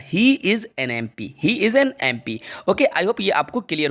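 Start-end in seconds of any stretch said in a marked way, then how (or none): 0.0-1.3 slow, word by word; slow dictation. Shown as a demonstration. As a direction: spell the sentence out slowly for students. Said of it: "तो MP मतलब article an आएगा". (धीमे-धीमे बोलकर लिखवाना)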